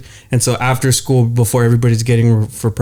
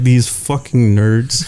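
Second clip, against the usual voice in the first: mock sneer; much slower than usual. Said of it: "looking at us like".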